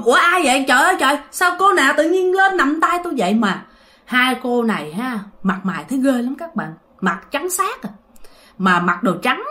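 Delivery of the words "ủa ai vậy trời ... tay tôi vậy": startled. Retold or imitated. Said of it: "ngoại hết hồn".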